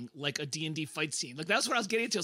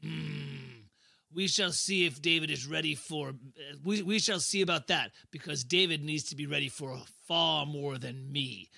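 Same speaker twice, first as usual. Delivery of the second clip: brooding villain's reply, sinking at the end; ominous; 4 semitones lower than usual. Acted. Faustus threatening David's protector, ominous. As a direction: answer with veiled menace.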